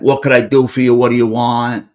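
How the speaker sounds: mock a hard man's barking; imitated barking. The speaker playing alpha to the visitor, mildly barking. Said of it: "A lot of that barking shit".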